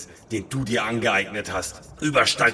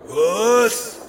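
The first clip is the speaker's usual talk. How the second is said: shocked shriek; 12 semitones higher, 6 dB louder than usual. Acted. Shocked high shout.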